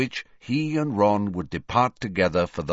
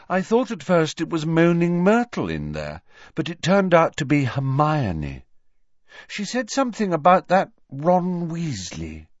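put-on higher, airy young girl voice, vague and matter-of-fact; Luna's voice; 8 semitones higher than usual. A narrator's reading. Luna telling Harry about crying Hermione, higher airy girl voice. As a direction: float the words like a dreamy schoolgirl.

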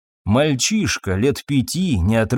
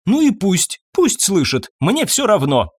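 shouting; 7 semitones higher than usual. A narrator's reading. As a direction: shout that she doesn't care. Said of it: "кричала она".

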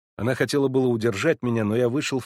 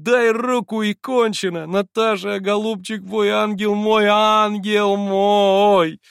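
high, loud, with a drawn-out last ангел мой; lightly imitating Natasha; 11 semitones higher, 7 dB louder, much slower than usual. Alyosha quoting Natasha's forgiveness, rapturous. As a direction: echo her tender words in rapture. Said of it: "Она уж говорит".

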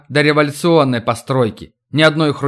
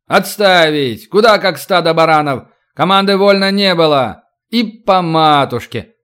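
shouting drill sergeant; 2 semitones higher than usual. Acted. Older men bark at crowd.

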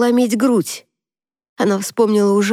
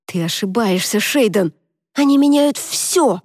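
хриплым голосом; 2 semitones higher than usual. Acted. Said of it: "настаивала она хриплым голосом".

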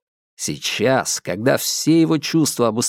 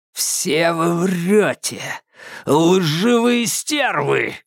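slow furious accusation; 5 semitones higher, much slower than usual. A narrator's reading. Psycho turns furious.

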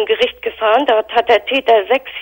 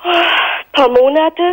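tearful; 6 semitones higher, much slower than usual. Real, not acted. Mother recalls daughter's ordeal.

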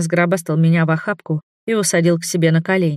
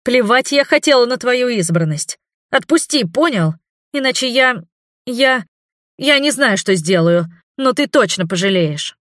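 high, raised voice, sputtering threats; furious outburst; 6 semitones higher than usual. A narrator's reading. Heroine screams at the vampire, stammering with rage. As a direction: heroine yells at the vampire to let her go.

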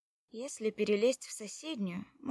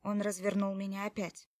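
plain reading voice

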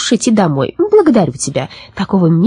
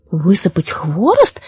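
slow, incredulous question; surprised echo question; slower than usual. Acted. Baba Yaga asked to dump her brushwood, surprised question. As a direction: echo it slowly in mild disbelief. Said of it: "с удивлением переспросила".

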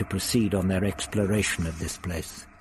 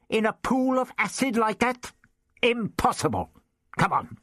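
put-on raised, testy old man voice; the Doctor lectures Ian, smug and raised; 12 semitones higher than usual. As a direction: play the prickly old Doctor. Doctor dismisses.

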